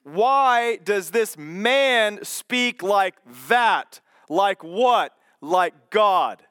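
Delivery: deliberate, mildly indignant questioning; accusatory. Acted. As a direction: press each question home as an offended scribe. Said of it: "this accusatory question".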